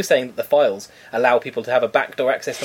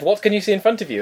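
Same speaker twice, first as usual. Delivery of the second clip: lightly imitated scammer, higher pitch; scammer's questioning; 8 semitones higher than usual. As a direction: quote the phone scammer in a raised voice. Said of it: "Well, he said".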